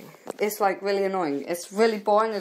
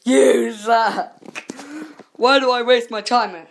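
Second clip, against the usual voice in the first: bored viewer; 3 semitones higher, 5 dB louder, slower than usual. Retold or imitated. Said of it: "looking at me like".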